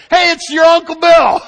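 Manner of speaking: high, loud mock kids' shout; imitated excited kids. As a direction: call out like thrilled children spotting a relative. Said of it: "the kids start going".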